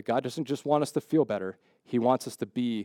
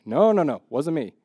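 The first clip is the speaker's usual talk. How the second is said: flustered denial; 3 semitones higher than usual. Acted. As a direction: act out a hasty denial. Acted denial at the campfire.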